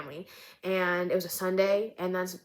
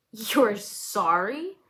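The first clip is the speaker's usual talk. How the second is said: slow, louder incredulous scoff; 2 semitones higher, 3 dB louder, much slower than usual. Acted. Older woman mocking the driver's apology, scoffing. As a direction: throw the apology back with contempt. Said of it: "She's scoffing at me".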